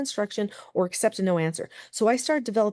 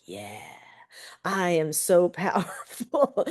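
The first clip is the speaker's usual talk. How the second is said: smug laughing; slower than usual. Retold or imitated. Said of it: "I was like".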